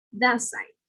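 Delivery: "that side" said as thasside; no T in "that", just an S into "side"; T becomes S. Shown as a demonstration. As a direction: link "that side" with a single hiss of S. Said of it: "will become like an S".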